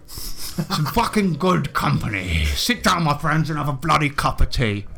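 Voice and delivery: lightly voiced sweary adventurer; hearty Willie Dynamite figure. Willie greeting the party, lightly voiced hearty host. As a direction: play a chummy, blustering host lightly.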